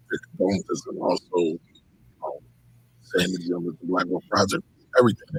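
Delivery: muffled, underwater-sounding audio; muffled mic. Real, not acted. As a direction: talk through a muffled mic. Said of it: "you sound like you're underwater".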